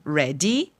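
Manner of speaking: "Ready" ending in a clear i sound; "Ready" with the i sound that turns red into ready; final i sound. Shown as a demonstration. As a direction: let "Ready" finish on an i vowel. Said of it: "se estende o i já é uma outra palavra".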